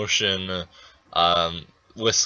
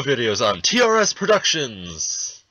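monster truck ad; 3 semitones higher than usual. Acted. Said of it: "Doing the old Monster Truck Rally voice".

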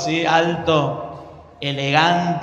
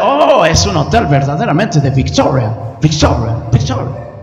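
gringo preacher voice; 3 semitones lower, 3 dB louder than usual. Retold or imitated. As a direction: let victoria echo away. Gringo's catchphrase. (gringo que repite victoria, cada vez más bajo)

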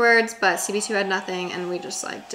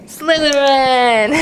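gasp, then a much higher, louder, slow cry of the house; excited announcing; 4 semitones higher, 11 dB louder, much slower than usual. Real, not acted. Sorting her dogs into houses, thrilled high announcing. Sorting-hat game with dog.

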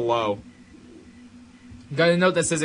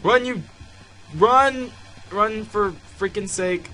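high, loud yell easing off; frantic urging; 8 semitones higher, 4 dB louder than usual. Real, not acted. Player yelling at the character to run, frantic. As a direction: urge desperately to flee.

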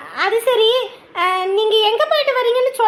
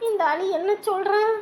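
whimpering panic; 2 semitones lower, 4 dB quieter than usual. Acted.

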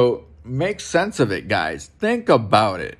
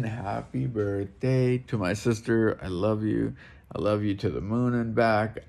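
tender birthday wish; 2 semitones lower, 6 dB quieter than usual. Real, not acted. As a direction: speak gently to a sister you love. Birthday wish to his sister.

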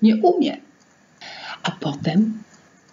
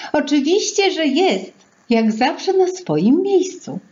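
put-on bright girl's voice; 8 semitones higher than usual. Girl answers the gatekeeper brightly.

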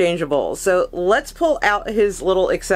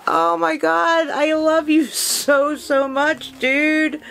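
high, slow doting coo; gushing adoration; 7 semitones higher, slower than usual. Real, not acted. Gushing over the figure's face.

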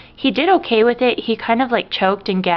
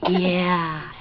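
whispered. Real, not acted. Answering for the baby.

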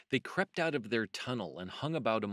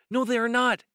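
high, loud squabbling rabbit; loud, high-pitched storybook retort; insistent contradiction; 13 semitones higher, 11 dB louder than usual. A narrator's reading. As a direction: flatly deny it at the top of a high voice. Peter contradicts frightened Benjamin.

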